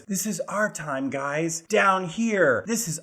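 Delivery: lightly hammed-up hero monologue; Sean Astin pep talk. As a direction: imitate an overearnest rallying speech. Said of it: "starts giving one of his".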